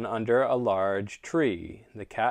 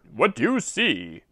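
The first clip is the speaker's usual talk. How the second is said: curious rooster voice; 4 semitones higher, 4 dB louder than usual. Acted. Rooster asks donkey.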